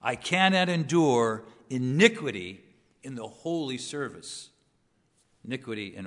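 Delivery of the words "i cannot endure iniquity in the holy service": pointedly scornful scripture quote; sarcastic reading. Retold or imitated. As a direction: read it with a touch of sarcasm, punching the opening. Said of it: "there's some sarcasm there".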